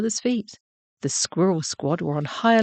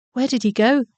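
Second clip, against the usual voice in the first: anxious question; 6 semitones higher, 5 dB louder than usual. A narrator's reading. Badger anxiously searches for Horatio.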